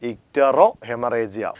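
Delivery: extremely slow, syllable by syllable; slow repeat. Shown as a demonstration. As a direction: stretch the Latin name out word by word. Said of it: "എന്താ പറഞ്ഞേ". (അക്ഷരം അക്ഷരമായി വളരെ പതുക്കെ)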